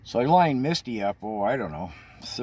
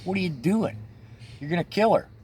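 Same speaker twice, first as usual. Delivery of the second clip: freaking out; 9 semitones higher, faster than usual. Retold or imitated. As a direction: cry out as if the horse might die. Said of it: "Lori's freaking out".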